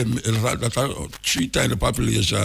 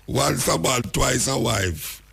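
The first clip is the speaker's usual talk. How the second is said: slow title; 2 semitones higher, much slower than usual. Shown as a demonstration. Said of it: "It name Once a Man".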